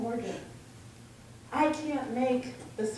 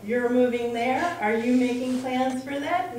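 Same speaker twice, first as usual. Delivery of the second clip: put-on British accent; 2 semitones higher, 6 dB louder than usual. Friend Neil grilling the speaker about plans, mock British accent. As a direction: imitate a probing British friend in his accent. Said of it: "in his British accent".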